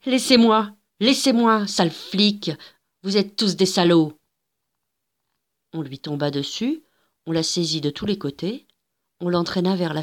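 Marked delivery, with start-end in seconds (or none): 0.1-4.2 crier en se débattant, plus fort; cri de colère. Acted. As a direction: rage contre les agents. Gilda se débat contre agents. (colère, voix haute et forte)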